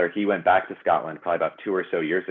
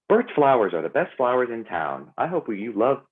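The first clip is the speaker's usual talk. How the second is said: higher, bright bubbly ad read; 5 semitones higher than usual. Shown as a demonstration. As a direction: sell the flower shop with a bubbly lilt. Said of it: "sounds really, like, bubbly and not really how I talk".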